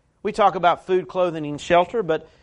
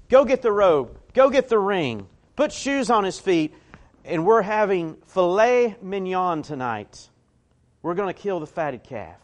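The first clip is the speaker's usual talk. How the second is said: eager father's orders; 3 semitones higher than usual. Retold or imitated. Father interrupts, orders a feast.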